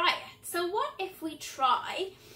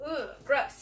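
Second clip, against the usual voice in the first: low mock-disgusted groan; 4 semitones lower, 3 dB quieter than usual. Shown as a demonstration. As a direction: sound grossed out. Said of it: "disgusted voice".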